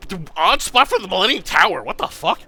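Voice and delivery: high, loud incredulous complaint; baffled protest. Real, not acted. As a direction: exclaim it in disbelief, demanding a reason. Baffled protest at tower's location.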